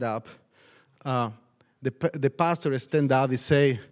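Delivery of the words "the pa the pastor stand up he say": ordinary talk, nothing marked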